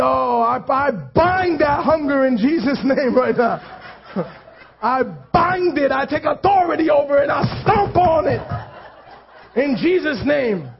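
hammed-up binding prayer, laughing through it; mock a believer who prays instead of helping; mocking over-spiritual believer. Preacher mocks a churchgoer's showy prayer, laughing. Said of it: "You say".

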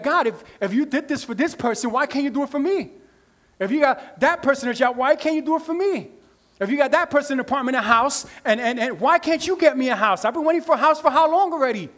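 indignant pleading, rising in pitch; acted complaint to God. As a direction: plead your case, a touch aggrieved. Acting out believer complaining to God.

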